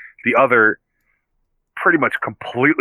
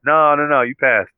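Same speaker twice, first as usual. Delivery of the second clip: yeah yeah yeah, quick and higher, brushing it off; dismissive Tony; 5 semitones higher, 3 dB louder than usual. Retold or imitated. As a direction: hurry the kid along with a hammed-up wave-off.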